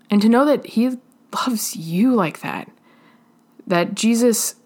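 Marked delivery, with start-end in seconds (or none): 0.1-2.7 whisper. Real, not acted. Tender moment about Jesus' love.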